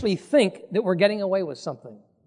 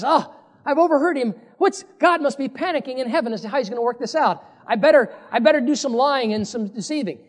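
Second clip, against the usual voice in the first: higher, quick conspiring mother; a light hint of a scheming mother; scheming Rebekah; 5 semitones higher than usual. Preacher voices scheming Rebekah.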